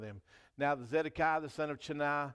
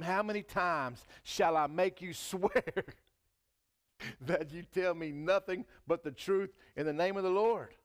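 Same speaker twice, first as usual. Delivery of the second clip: exasperated king; 5 semitones higher, 4 dB louder than usual. Acted.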